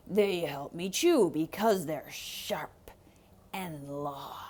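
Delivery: low whispered threat, fading; menacing wolf whisper. Acted. Wolf to Rico about his teeth, low menacing whisper. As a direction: savour the sharp teeth in a whisper.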